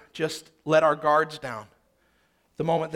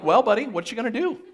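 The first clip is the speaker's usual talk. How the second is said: a cocky tough guy voiced for the baby, higher and louder, with laughs; 6 semitones higher, 8 dB louder than usual. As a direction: tease dad like a smug little wiseguy, laughing. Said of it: "It was weird that Lily talked like that, with that accent".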